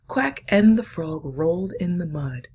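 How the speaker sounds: put-on hushed, slowed reading for children; story reading. Reads picture book aloud.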